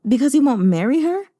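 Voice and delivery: high, whiny mock of the nagging maidservant. Mocking the maidservant to viewers, high and whiny. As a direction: squeak it out like a fussy servant scolding. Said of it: "the maidservant is still like".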